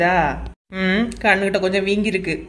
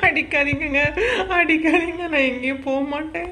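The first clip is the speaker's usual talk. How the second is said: fake pleading through laughter; 4 semitones higher than usual. Wife fakes beating cries, laughing.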